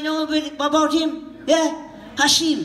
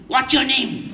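short and to the point; quick, no wasted words; clipped direct version; slower than usual. Retold or imitated. Showing how Charos ask, clipped and direct. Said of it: "We come to you and go directly".

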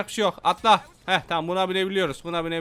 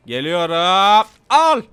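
mock battle cry; 8 dB louder, much slower than usual. Drawn-out battle cry in fight.

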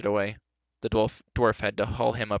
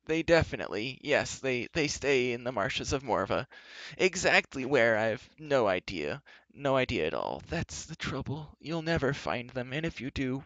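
moaning; 3 semitones higher than usual. Acted. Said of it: "Gwistle moaned".

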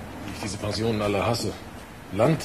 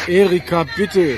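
tinny voice through a phone line; calling from a payphone, higher and louder; 7 semitones higher, 6 dB louder, slower than usual. Acted. Anruf, bittet Ehefrau. (Stimme durchs Telefon)

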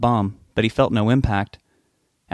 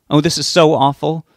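phone voice; 5 semitones higher, 6 dB louder than usual. Acted. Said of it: "tinny-sounding speaker in the earpiece".

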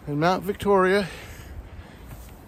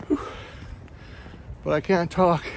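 panting mid-hike; short of air on the climb; out of breath. Real, not acted. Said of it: "I'm not getting enough air".

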